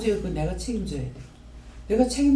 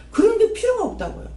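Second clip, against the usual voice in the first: emphatic rebuke; 12 semitones higher than usual. Real, not acted.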